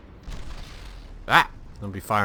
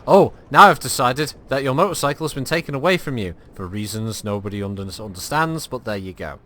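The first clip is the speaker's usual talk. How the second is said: mocking the other GM; 5 dB louder than usual. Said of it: "Not Simon's Friend does".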